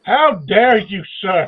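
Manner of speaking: slow, loud, hammed-up indignation; mock outrage. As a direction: play the offended gentleman.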